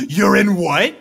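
high, loud and drawn-out disbelief; incredulous outrage. Acted. Sister reacts to a love confession, incredulous outrage. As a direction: stretch it out in outraged shock.

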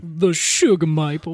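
non-rhotic New England accent attempt; put-on accent. Host playfully trying a co-host's tree name, put-on New England accent. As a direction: sugar said "shugah" in a Bostonian accent. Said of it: "I can't do it".

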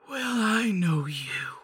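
slow whispered crone voice; a knowing hag's whisper. Acted. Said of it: "said the hag".

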